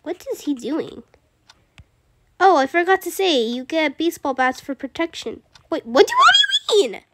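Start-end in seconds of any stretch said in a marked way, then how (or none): 5.7-7.0 laughing panic. Real, not acted. Learns of baseball bats.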